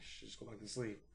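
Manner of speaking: hushed. Retold or imitated. Telling his girlfriend to sleep, softly hushed. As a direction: lull her back to sleep.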